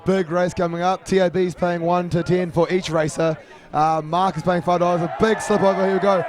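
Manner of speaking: race caller. Acted. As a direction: lively race call, building up. Race call begins.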